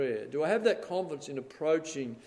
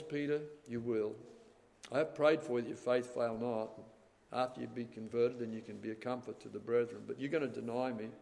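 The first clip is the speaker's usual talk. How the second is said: gentle; 3 semitones lower, 6 dB quieter than usual. Acted. The Lord answering Peter gently.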